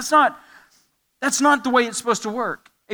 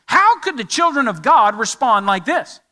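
indignant disbelief; 3 semitones higher, 4 dB louder than usual. Acted. Voicing readers' indignant thoughts.

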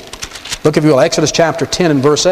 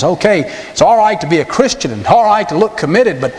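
Satan's voice; 3 semitones higher than usual. Retold or imitated. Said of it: "This is the voice of Satan that whispers in your heart".

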